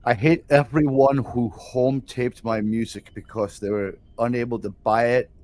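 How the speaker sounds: rough attempt at a Danish accent; deliberate, lightly Danish-accented mock rant; a musician, Danish accent. Host playing a musician scolding home tapers, loose Danish accent. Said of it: "I should try to do a Danish accent".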